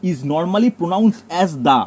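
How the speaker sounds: very slow, word by word for notes; slow dictation. Shown as a demonstration. Teacher dictating the rule to the class, very slow. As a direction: spell the rule out slowly so they can write. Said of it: "note down করো".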